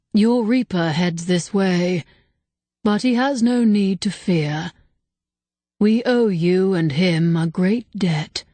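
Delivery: slow and grave; solemn spirit voice. Acted. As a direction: speak like an ancient being, unhurried. Ancient spirit speaks.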